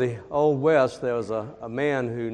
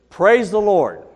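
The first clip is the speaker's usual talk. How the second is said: a louder, higher praise the Lord; mock exclamation; 7 semitones higher, 9 dB louder than usual. Preacher teaching buyer the horse's go-command, exclaimed. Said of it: "what you need to say is".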